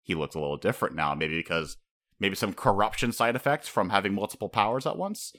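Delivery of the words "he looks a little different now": higher, baffled calling out; a hint of an exasperated fan; mock outcry. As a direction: demand answers from Oda. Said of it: "I'm just like".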